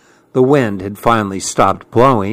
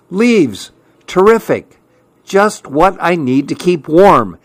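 porcupine voice; 5 semitones higher than usual. Acted.

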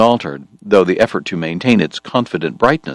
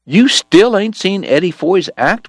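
high, slow, talking through a mouthful; mouth full; 13 semitones higher, 4 dB louder than usual. Acted. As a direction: exclaim around a bite of stew. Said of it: "cried around a mouthful of deer meat".

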